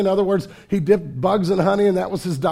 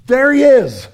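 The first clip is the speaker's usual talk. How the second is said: loud, high ringing cry; excited announcement; 5 semitones higher, 8 dB louder than usual. Retold or imitated. John spotting Jesus and crying it out, loud and high. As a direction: point him out with a burst of joy. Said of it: "He, he says".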